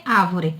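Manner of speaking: "árvore" said as "A-vo-re", no R before the V; dropped R. Shown as a demonstration. Teacher rejecting the wrong form, first R dropped. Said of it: "Não é árvore".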